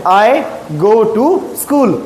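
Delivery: slow, spaced-out words; slow modelling. Shown as a demonstration. Teacher giving pupils the English answer, slowly. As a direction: say it slowly for learners to follow.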